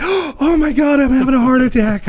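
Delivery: high, loud mock panic; panicking mom. Mom to son as he guns it, mock panic. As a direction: squeal it like a terrified mom.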